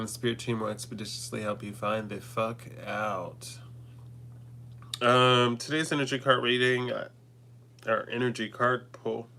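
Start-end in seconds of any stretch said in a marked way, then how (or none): 0.0-3.6 whispering. Acted. Whispered threat after blessing.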